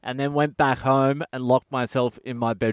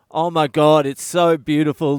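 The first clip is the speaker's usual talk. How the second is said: gushing; 4 dB louder than usual. Retold or imitated. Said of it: "every single person we told ... said".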